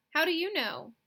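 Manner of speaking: high, loud skeptical demand; high challenge. Acted. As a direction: challenge her sharply, voice up high.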